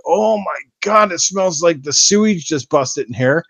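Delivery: slow, drawn-out mock disgust. Himself in the Walmart aisle, slow mock disgust. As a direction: savour the stink, slowly. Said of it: "and I was like".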